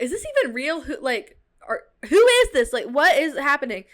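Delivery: retold disbelief. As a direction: build to a bewildered near-yell on who is this. Retold disbelief at strange messages.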